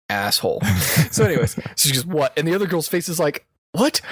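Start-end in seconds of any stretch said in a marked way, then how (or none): 2.1-2.3 "What" with a falling tune; serious "What". Retold or imitated. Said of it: "she gets this serious face". 3.7-4.0 "What" with a rising, puzzled tune; confused "What". Retold or imitated. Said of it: "the confusion".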